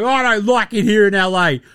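whiny complaining. Retold or imitated. Imitating a complaining player.

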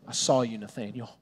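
Jesus quietly telling Nathanael he saw him; quiet knowing. Retold or imitated. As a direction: let it land softly on his name. Jesus addresses Nathanael gently.

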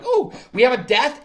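high-pitched, pleased "oh"; retold happy excitement. Telling how happy they felt inside, retold delight. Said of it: "Inside, I'm kind of happy".

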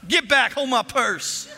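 high, loud sassy warning; hammed-up sassy defender; feisty protective friend. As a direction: push in, ready to fight for a friend. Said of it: "You need somebody to go".

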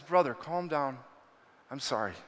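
retold placating tone; calming apology. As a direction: soothe an upset man, easing down. Retold calming of angry man.

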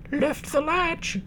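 very high, slow frail granny; a weak grandmother calling out; old woman voice. Acted. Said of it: "called the grandmother".

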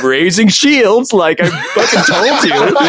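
mock weary exasperation, drawn out; exasperated Worf. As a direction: imitate a fed-up officer proved right, slowly. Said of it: "Worf once again sighs, shakes his head".

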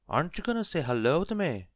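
high, loud goblin voice; cheeky goblin. A narrator's reading. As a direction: pipe up high and loud as a pushy little goblin. Goblin pipes up to Mister Uppity.

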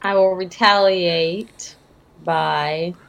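put-on slow, deliberate old sloth; in-character elderly sloth. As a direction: draw it out lightly as an aged sloth. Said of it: "I'm trying to talk in character".

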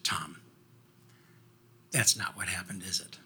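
low, soft teacher voice; gentle disbelief. Retold or imitated. Teacher holding pupil's hand with both hands, gently doubting. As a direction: quietly coax the truth out, retold.

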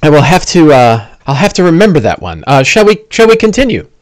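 a prim fellow worried about his face; Bing fussing. Acted. GM voices Bing.

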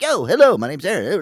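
loud, high friendly greeting, imitating the friend; eager intro. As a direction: greet every stranger like an old pal. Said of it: "and like".

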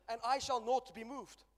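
slow, loud proclamation; preached declaration. Acted. Preacher leading the church in a slow, loud declaration. Congregation chant, preacher leads.

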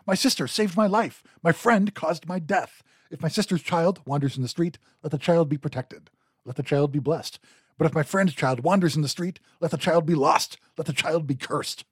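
a doomed man crying out his blessing and curse; crying out in grief. Acted. Dumuzi cries out to his captors, grieving and pleading. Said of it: "He cried out".

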